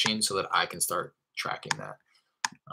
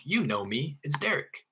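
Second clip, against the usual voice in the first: higher-pitched, as if they already know you; familiar; 8 semitones higher than usual. Shown as a demonstration. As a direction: act like an old acquaintance on the phone. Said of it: "Say it in a way where it's like".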